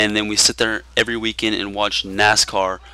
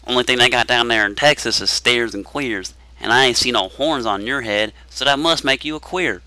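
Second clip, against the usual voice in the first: mock southern accent; 2 semitones higher than usual. Mocking how outsiders tell a Texas joke, in a put-on Southern accent. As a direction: ham up a Southern accent to tell the old steers-and-queers joke. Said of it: "in that just god-awful southern accent".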